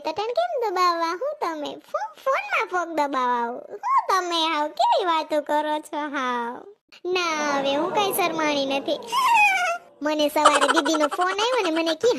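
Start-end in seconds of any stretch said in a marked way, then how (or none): 1.2-6.7 shy teasing. Acted. Bride shyly teasing fiancé. 9.0-9.8 shy giggle. Acted. Bride giggles on phone.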